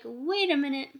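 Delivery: loud, bright-eyed enthusiasm, pitch up; excited. Retold or imitated. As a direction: gush about feeling special. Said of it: "people started to feel like".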